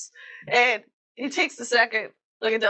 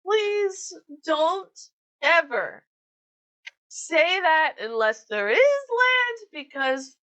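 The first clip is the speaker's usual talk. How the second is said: pleading captain; 5 semitones higher than usual. Acted. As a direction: beg them never to do it again.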